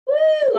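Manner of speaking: high, loud joyful whoop; excited whoop. Real, not acted. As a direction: whoop with delight. Starting a favourite move.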